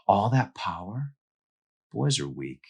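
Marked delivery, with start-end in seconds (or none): 0.1-1.1 savouring villain. Acted. Villain savouring her power.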